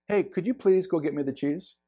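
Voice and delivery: a kind please with a rising ask; polite request. Shown as a demonstration. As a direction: ask it nicely, gently. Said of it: "thirty-eight percent of communication is tone".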